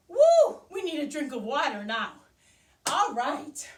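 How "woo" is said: loud high woo; big celebratory whoop; cheer. Real, not acted. Cheering kids on.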